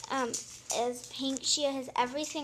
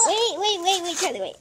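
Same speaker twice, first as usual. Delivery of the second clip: urgent calling out; 4 semitones higher than usual. Real, not acted. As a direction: call out to stop her fast. Stopping sister mid-unboxing.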